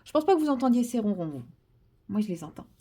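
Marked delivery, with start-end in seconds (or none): none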